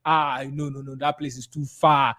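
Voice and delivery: lightly voiced dismissive client, drawn-out noes; objecting client. Client rejecting land in Ekpe, mildly dismissive. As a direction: refuse in a level run of noes. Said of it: "when somebody tell you that".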